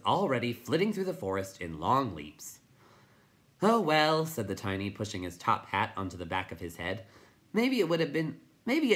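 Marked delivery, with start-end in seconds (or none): 3.6-4.2 tiny high voice. A narrator's reading. 7.5-8.9 tiny high voice. A narrator's reading.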